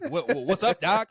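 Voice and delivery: high, loud fake Cajun voice breaking into laughter; mock Cajun accent, laughing. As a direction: laugh through a hammed-up Cajun line. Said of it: "Southern Louisiana Cajun accent".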